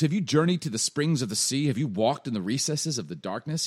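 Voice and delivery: lightly mocking rhetorical questions; God. God testing Job's knowledge, lightly mocking challenge. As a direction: press him with emphatic questioning. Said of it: "this is God kinda mocking".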